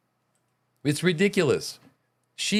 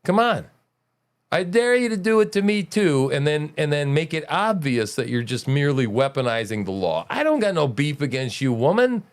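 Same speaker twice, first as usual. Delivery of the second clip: taunting dare. Retold or imitated. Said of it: "walked through there and said".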